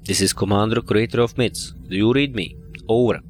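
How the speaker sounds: radio call sign-off; over a radio. Acted. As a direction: call out like a pilot on comms. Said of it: "broadcasting on the ward frequency".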